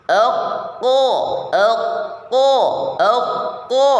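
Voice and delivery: ek ko dengan ujung lidah tidak menempel; pelafalan qaf infitah. Shown as a demonstration. (ek ko infitah)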